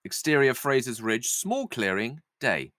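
measured table-read narration with deliberate pauses; stage-direction narration. A narrator's reading. Narrator sets the scene at the still, measured reading. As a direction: read out the stage directions, savouring each phrase.

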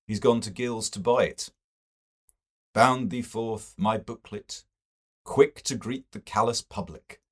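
chatty, eager literary fellow; a hint of a genial colleague sharing news; Mister Best. Mister Best's dialogue voiced.

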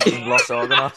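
Scouse accent, laughing through Las Organas; chuckling Scouse Las Organas. Shown as a demonstration. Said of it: "saying it in a Scouse accent".

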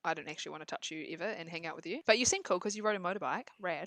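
lightly voiced aloof boy brushing her off; aloof cool guy. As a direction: toss it off like a bored teen heartthrob.

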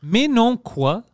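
high, drawn-out French catchphrase; exaggerated singsong Frenchman; mock French from France. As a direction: slowly parody the French accent. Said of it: "Ils disent beaucoup ça".

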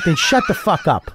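high shouted retold command; mock angry shout. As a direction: imitate a boss shutting a kid up. Old man silencing the crying kid.

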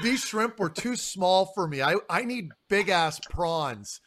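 slow, emphatic mock complaint; drawn-out mock diva griping; high-maintenance diner. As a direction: lightly mimic a fussy eater, dragging out the demands. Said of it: "high maintenance thing to say, though. Like".

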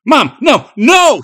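high, loud, pleading protest; frantic child's wail of no; desperate cry. A narrator's reading. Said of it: "he cried".

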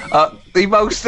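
ordinary delivery

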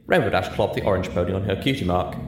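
very high, playful come-on. A narrator's reading. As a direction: tease her friend with a flirt.

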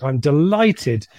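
Northern Irish lilt on 'I'm delighted', slow; northern irish accent. Retold or imitated. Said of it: "Was that for my Northern Irish accent".

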